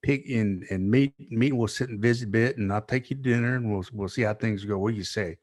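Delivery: lightly imitated Texan recruiter; easy invitation with a hint of Texan; Texan accent. Coach inviting a recruit to dinner, light Texan accent. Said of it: "He had that accent".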